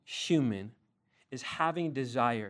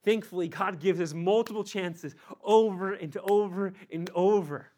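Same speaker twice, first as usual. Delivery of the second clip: Thankfully, God gives us multiple chances over and over with over driven louder and higher each time; rising preaching shout; 7 semitones higher, 5 dB louder than usual. Shown as a demonstration. Preacher exhorting his congregation about God's many chances, rising to a shout. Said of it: "Thankfully, we get second chances".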